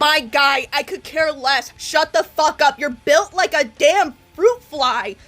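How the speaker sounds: loud, scornful dressing-down; angry retort. Real, not acted. Commentator tears into the man in the clip, angry retort. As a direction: fire back with exasperated force.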